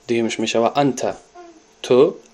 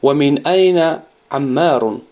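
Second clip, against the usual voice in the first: slow, lifted Arabic question; slow teacher question; 3 semitones higher, 4 dB louder, slower than usual. Retold or imitated. Teacher slowly models the classroom question. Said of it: "Ал-мударрис".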